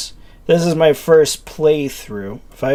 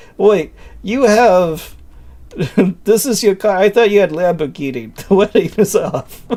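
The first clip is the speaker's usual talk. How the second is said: poor, fake German accent, pitched up; 7 semitones higher, 4 dB louder than usual. Telling a joke about a couple, the speaker voices one character in a bad German accent. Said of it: "Would be better if I had a better German a- accent".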